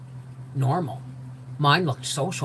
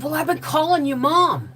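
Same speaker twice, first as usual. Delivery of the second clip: higher, slightly embarrassed; sheepish quote; 10 semitones higher, 4 dB louder than usual. Retold or imitated. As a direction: admit it with a shy grin. Howie's sheepish admission.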